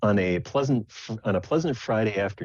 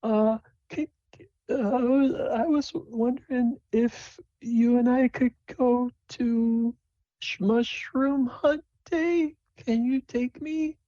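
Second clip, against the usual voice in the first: very high, slow, halting voice; hesitant Sable; slower than usual. Acted. Sable asks a friend to Mushroom Hunt Day, hesitant high voice. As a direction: ask haltingly in a tiny falsetto. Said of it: "And she says".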